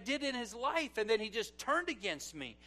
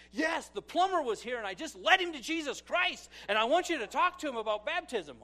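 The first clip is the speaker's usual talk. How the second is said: lightly voiced lady, pitched up and eager; excited lady caller; 4 semitones higher, 4 dB louder than usual. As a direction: imitate a church lady's higher phone voice. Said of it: "this lady who goes".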